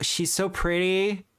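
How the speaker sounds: ordinary talk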